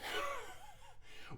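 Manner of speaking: soft, high-pitched chuckle; high laugh. Acted. Reacting to a pushy friend, high soft laugh. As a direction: laugh off the demand, high and quiet.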